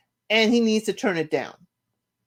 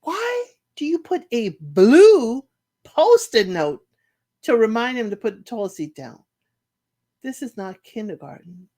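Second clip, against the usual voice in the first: incredulous scolding; 4 dB louder than usual. Retold or imitated. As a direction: talk down to them like a teacher. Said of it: "And I'm like".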